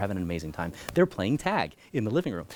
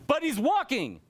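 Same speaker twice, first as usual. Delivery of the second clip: high, incredulous objection; mock surprise; slower than usual. Student objecting to the teacher, incredulous. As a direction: squeak it out like a doubting student.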